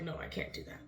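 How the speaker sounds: soft, breathy brush-off; muttered refusal. Retold or imitated. Teachers backing out of filling seats, muttered refusal.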